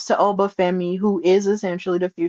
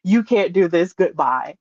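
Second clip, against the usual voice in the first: hollering fan. Retold or imitated. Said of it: "I was hollering".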